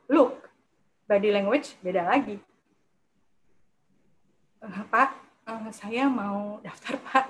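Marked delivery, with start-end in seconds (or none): 4.6-7.2 hesitant, halting demo of an unsure applicant; tidak percaya diri. Shown as a demonstration. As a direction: trail off softly between halting words. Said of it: "kita begitu kelihatan in confidence". (ragu-ragu dan kurang percaya diri)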